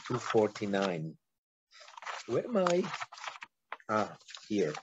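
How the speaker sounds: hoarse, worn-out voice; rasping, nearly whispered; raspy whisper. Real, not acted. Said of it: "I'm losing my voice".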